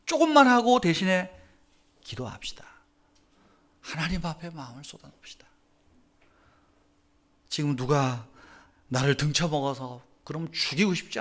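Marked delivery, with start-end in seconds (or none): 2.0-5.5 whispered urging to pray. Acted. Preacher whispering to the congregation to pour out hearts. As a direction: hush the room and whisper.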